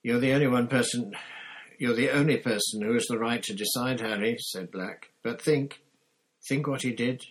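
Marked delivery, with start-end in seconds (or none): 0.0-4.4 quick, loud, earnest plea; urgent appeal. A narrator's reading. Black appeals to Harry's judgement, urgently. 5.2-7.2 higher, louder insistence; urgent appeal. A narrator's reading. Black reminds Harry of the crime, urgently.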